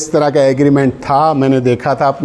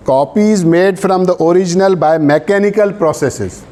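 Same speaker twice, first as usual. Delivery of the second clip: reads the law out word by word, very slow; measured legal dictation; slow dictation reading; 3 semitones higher, much slower than usual. Acted. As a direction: dictate so students can write it down. Dictating statute text to class.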